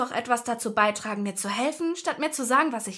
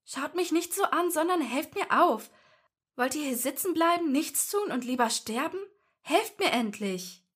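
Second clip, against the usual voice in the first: put-on higher, impatient angry girl; 7 semitones higher than usual. A narrator's reading. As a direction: snap at them to help. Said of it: "und Ginny wurde böse".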